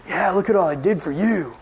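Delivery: smug, showing-off voice; boastful mock brag. To the youth group, Paul mocked as a smug bragger. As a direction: play a bragger fishing for praise.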